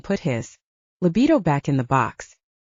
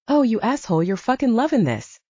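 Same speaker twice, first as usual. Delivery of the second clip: hissing through teeth; 5 semitones higher than usual. Acted. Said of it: "he hisses through his clenched".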